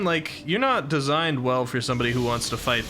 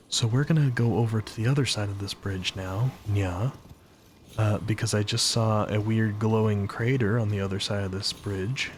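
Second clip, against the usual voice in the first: ASMR mode; 2 semitones lower than usual. Pretend. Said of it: "we're in one minute A S M R mode".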